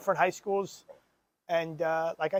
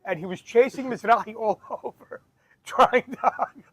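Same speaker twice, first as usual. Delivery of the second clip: louder telling, broken by laughter; real laughter between the words; laughing through the story; 3 semitones higher, 4 dB louder than usual. Real, not acted. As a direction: keep the story going through the giggles. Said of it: "I'm sorry for laughing through the story".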